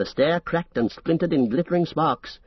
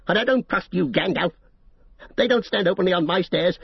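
shrill and cold; 3 semitones higher than usual. Acted. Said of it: "his voice was shrill and cold".

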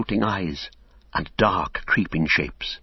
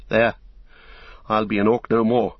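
cried; 3 semitones higher than usual. Acted. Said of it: "he cried".

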